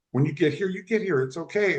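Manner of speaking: real tears held back while quoting; tender retelling on the edge of crying; tearful. Real, not acted. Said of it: "I started crying like I am now".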